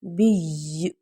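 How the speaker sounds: بی cut short at the stop; بی with a waqf; stopped reading. Shown as a demonstration. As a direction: stop firmly on بی. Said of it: "آگے وقف".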